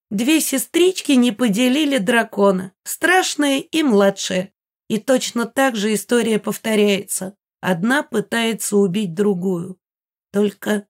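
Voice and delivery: smirk down at her; haughty smirk. Acted. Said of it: "усмехнулась она со всем высокомерием".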